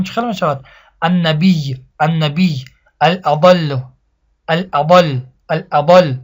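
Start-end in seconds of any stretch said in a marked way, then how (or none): 1.0-2.6 النبی with the doubled y held at the pause; stop keeping the shadda. Shown as a demonstration. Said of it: "یای تشدید دار وقف کنیم". 3.0-6.1 الاضل with the doubled l held at the pause; stop keeping the shadda. Shown as a demonstration. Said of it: "به مقدار ده حرف ساکن کرده خوانده شود".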